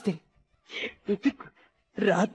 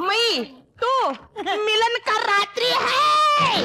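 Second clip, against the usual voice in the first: slow, higher, broken Hindi words spoken carefully; 5 semitones higher, slower than usual. Acted. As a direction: stretch out the broken Hindi to a bride who can't follow. Groom tries broken Hindi.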